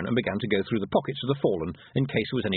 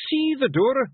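loud, very high Scottish order; forceful wee Scots chief; commanding; 14 semitones higher, 6 dB louder, slower than usual. A narrator's reading. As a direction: command her urgently. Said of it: "Rob Anybody commanded".

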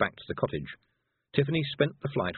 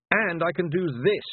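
high, slow, raised-voice declaration; defiant shout; 8 semitones higher, 4 dB louder, slower than usual. A narrator's reading. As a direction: call it out higher, stretching the words. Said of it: "Tiffany shouted".

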